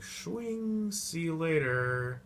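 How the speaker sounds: high breezy send-off; lightly voiced cocky goodbye; mock Sherlock farewell. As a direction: toss it off cheerfully. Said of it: "he's like".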